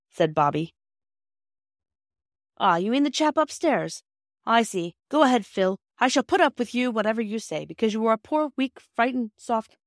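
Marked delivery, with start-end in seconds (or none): 2.6-9.8 taunting. A narrator's reading. Peter taunts his sister.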